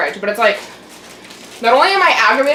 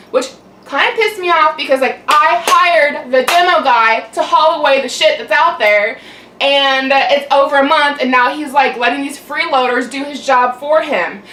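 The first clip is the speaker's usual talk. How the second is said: angry ranting; 4 semitones higher, 3 dB louder than usual. Real, not acted. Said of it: "Now I'm yelling at you guys".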